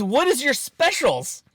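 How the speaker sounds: high, slow mimicry of a caller; imitated prank victim. Prank victim asking the pizza place, high mimicry. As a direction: draw the question out in a high put-on voice. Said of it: "the guy literally says".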